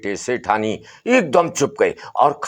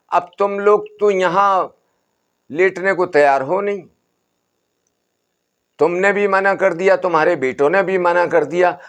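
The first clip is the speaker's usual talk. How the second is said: lightly raised, soothing holy man; a hint of an old sadhu calming the family; Baba's voice; 7 semitones higher than usual. बाबा का फैसला. (बाबा की हल्की ऊँची, समझाती आवाज़)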